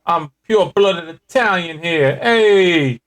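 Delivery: badly faked New York Italian; New York Italian accent. Claiming to be pure-blooded Italian, bad New York Italian accent. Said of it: "that is your New York Italian accent".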